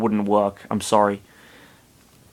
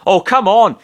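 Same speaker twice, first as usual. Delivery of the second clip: annoyed; 8 semitones higher, 5 dB louder than usual. Acted. Annoyed character thought.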